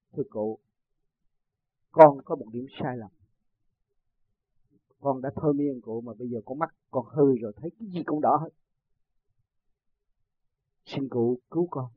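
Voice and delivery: low, subdued retold supplication; humble plea. Hypnotist confessing his mistake to the master, humble plea. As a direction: lightly act out a chastened man begging.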